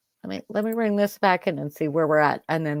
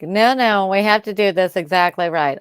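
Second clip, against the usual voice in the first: prim, fussy teacher voice; substitute teacher voice; 6 dB louder than usual. Pretend. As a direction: scold the class like a strict substitute. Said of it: "substitute teacher voice".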